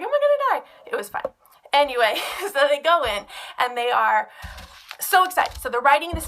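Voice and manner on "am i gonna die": very high mock squeal of fear; a kid hamming up dread; mock panic. Teacher imitating kids scared of popping candy, high mock squeal. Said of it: "so they're like".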